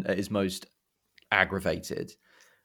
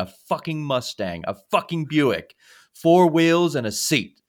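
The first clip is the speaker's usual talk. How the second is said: mock rant; 4 dB louder than usual. Fan retelling Steve Martin's rant at the rental clerk, building anger. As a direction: let rip on the clerk, building each car name. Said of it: "lets rip on her".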